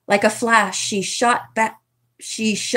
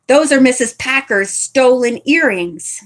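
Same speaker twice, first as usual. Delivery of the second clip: charged; 4 semitones higher, 4 dB louder than usual. Acted. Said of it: "Nancy charged".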